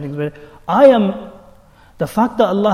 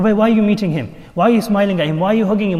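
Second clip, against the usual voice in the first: challenging questions; 5 semitones higher, 4 dB louder than usual. Acted. Acted challenge about meeting a friend.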